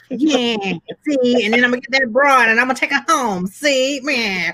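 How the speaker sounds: put-on high, fast old gangster voice; James Cagney impression. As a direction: swagger like a 1930s hood. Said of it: "That's our impression of James Cagney".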